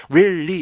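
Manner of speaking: "really" as rilli, one short vowel; two plain syllables in "really"; textbook-style "rilli" for "really"; dictionary REALLY. Shown as a demonstration. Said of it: "적어놨어요".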